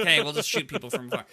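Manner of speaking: quick, laughing mock voice; mocking campers. Mocking cautious players who shoot from afar, laughing. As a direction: make fun of snipers with a laugh. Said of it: "They were like".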